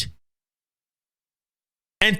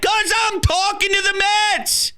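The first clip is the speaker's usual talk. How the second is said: matter-of-fact reply; 11 semitones higher than usual. Retold or imitated. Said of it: "And I say".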